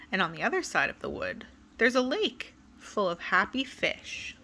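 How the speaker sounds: put-on lively, sing-song read-aloud for kids; storybook reading. A narrator's reading. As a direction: tell it like bedtime story time. Reading a picture book to children.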